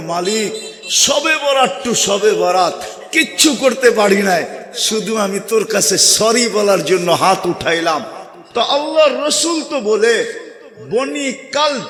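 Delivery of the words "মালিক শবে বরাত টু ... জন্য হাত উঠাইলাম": usual speaking voice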